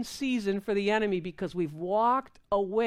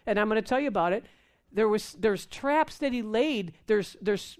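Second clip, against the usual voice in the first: ordinary talk, nothing marked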